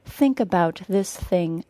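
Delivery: slow, careful model reading; practice sentence. Shown as a demonstration. Teacher recalls an earlier practice sentence, slow and careful. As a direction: say it slowly for learners. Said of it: "our practice sentence from podcast number one".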